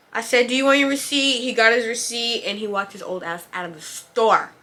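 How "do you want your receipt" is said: higher, louder sugary politeness; fake customer-service politeness. Cashier wanting the rude customer gone, forced sweet politeness. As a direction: smile through it, sweet but done. Receipt offer again.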